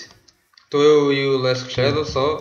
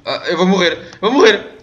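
panicked; 5 semitones higher, 4 dB louder than usual. Real, not acted. Dying in game.

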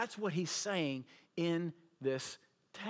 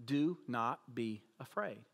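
calm reassurance; 5 semitones lower, slower than usual. Retold or imitated. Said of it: "He says".

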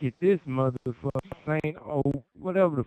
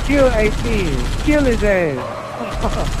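yelled order; 2 semitones higher, 5 dB louder, much slower than usual. Real, not acted. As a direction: yell out the kill order. Yelling in game firefight.

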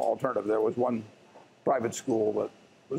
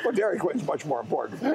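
wry joke delivered through a laugh; 6 semitones higher than usual. Real, not acted. The speaker joking with the host about Dairy Queen, laughing. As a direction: chuckle as you deliver the punchline.

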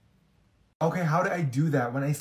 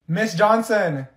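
louder, higher call of Miss Johnson; 4 semitones higher, 4 dB louder, much slower than usual. Acted. Student calling the teacher a second time, louder. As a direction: raise it so the teacher hears. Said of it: "I have to say your name three times".

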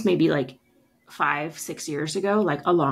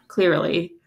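laughing; 5 semitones higher than usual. Retold or imitated. Retold reply, laughing.

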